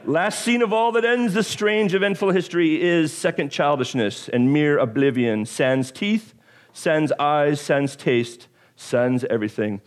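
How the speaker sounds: dramatic poem reading; Shakespeare recital. Shown as a demonstration. Pastor reciting Shakespeare to congregation, dramatic reading. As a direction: recite it like a stage actor. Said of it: "here goes my Shakespeare as best that I can do".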